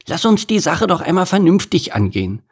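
high-voiced goose making peace; placating, high pitch; conciliatory. A narrator's reading. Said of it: "sagte Gerda die Gans versöhnlich".

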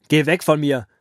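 lauter Wutschrei des Pharao; schreiend. Acted. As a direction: schrei Mose laut an. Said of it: "schrie der Pharao Mose an". (Pharao schreit Mose wütend an)

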